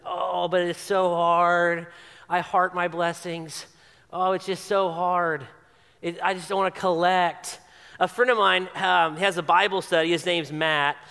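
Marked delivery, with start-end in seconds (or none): 0.0-7.6 put-on self-pity, dragging the words; mock complaining. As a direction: moan it as a parody of a burdened believer. Mock complaint about guarding own blessings.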